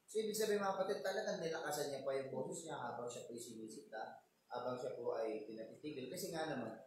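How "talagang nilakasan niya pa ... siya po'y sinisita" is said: ordinary talk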